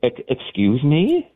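slow, stammering disbelief; retelling his own stunned reply to the sheriff, slow and disbelieving. Retold or imitated. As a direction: drag out the question like you can't believe your ears. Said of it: "I, I go".

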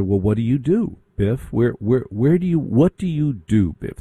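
lightly mimicking a rich kid's polite question; preppy party voice. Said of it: "they ask each other".

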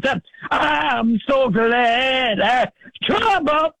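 rhythmic sermon cadence with uh fillers; fervent Black church preaching. Real, not acted. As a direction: preach it to the church, carried by the spirit. Preaching to the congregation.

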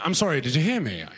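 imitated British person, politely puzzled; mock British lost traveller, restrained; British accent. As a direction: ask again in a British accent. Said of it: "Like a British person".

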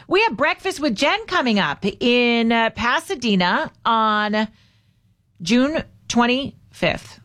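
slow, chopped-up delivery; spaced out word by word; staccato cadence. Real, not acted. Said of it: "A little bit of a Gavin Newsom cadence there".

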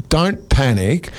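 slow, drawn-out reassurance; careful warning. Retold or imitated. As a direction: draw it out cautiously. Retold cautious warning about spider.

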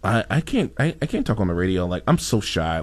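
hide behind a bashful fake voice; disguised voice. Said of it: "why I changed my voice".

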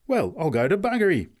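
high, loud burst of disbelief; amazed exclamation. A narrator's reading. Man amazed at the milkless cart, exclaiming. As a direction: exclaim as if floored. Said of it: "exclaimed the man".

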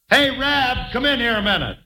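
high-pitched hail; calling out. Acted. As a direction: summon someone from the next room. Calls rabbit from other room.

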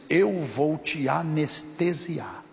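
slow, measured pronouncement; voice of God. Retold or imitated. God answering the suffering pastor, solemnly and slowly. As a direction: draw each word out as a divine promise. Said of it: "E aí Deus disse assim".

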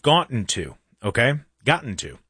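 slight British lilt slipping out; accidental British accent. Real, not acted. Host surprised by his own words, slight British accent. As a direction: let a British accent slip in. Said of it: "Accent came out there".

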